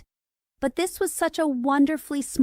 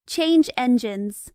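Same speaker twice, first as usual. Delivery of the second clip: slow, louder hoarse call; 5 dB louder, slower than usual. Acted. Unseen passenger calls out to Alice, slow hoarse voice. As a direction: croak it out, slowly and loud. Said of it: "a hoarse voice spoke next".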